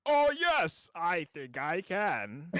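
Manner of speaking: put-on high, wavering old man voice. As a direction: practice a creaky old geezer. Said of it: "I need to practice my old man voice".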